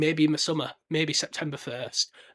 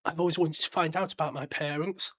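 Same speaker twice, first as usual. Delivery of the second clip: a light imitation of a soft-spoken southern English boy; softly spoken Southern. Podcaster imitating the young Harry actor's movie voice, lightly and softly. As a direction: lightly mimic a gentle, well-spoken English kid. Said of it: "that really softly spoken Southern Dan Ratcliffe voice".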